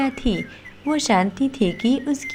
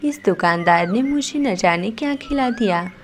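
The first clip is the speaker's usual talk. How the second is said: hammed-up cries of a fake stomach ache, louder; faked pain wailing; 3 dB louder than usual. Sona fakes a stomach ache to dodge paying, mock wailing. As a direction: wail loudly to fool the shopkeeper. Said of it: "जोर-जोर से चिल्लाने लगती".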